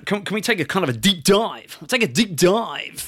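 high, bright-on-air DJ delivery; lightly voiced morning radio host. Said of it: "Why are you talking like that?".

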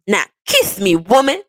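teasing, emphatic order; playful demand. Pretend. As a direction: demand it playfully from your sweetheart. Playful sign-off demand to partner.

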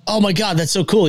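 a mild mock of an overexcited fan; imitating gushing catchphrase. To the cohost, mocking own catchphrase, lightly gushing. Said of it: "the whole, like".

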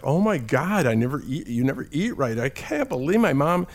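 high-pitched excited realization, swooping up; laughing disbelief. Retold or imitated. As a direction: imitate an amazed, giddy client. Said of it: "she started laughing. She's like".

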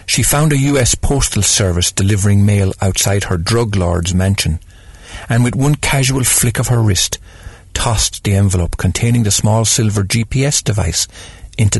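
steady, even storytelling read; story narration. A narrator's reading. Host reading a short story to radio listeners, calm narration.

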